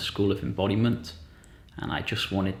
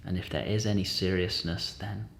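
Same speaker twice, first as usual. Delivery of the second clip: gentle guided-meditation voice, long pauses. Real, not acted. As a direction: lightly guide listeners inward, unhurried.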